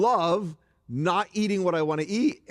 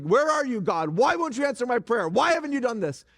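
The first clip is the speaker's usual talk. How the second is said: frustrated plea; 5 semitones higher than usual. Retold or imitated. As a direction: vent at God like an unanswered prayer. Frustrated believer praying to God.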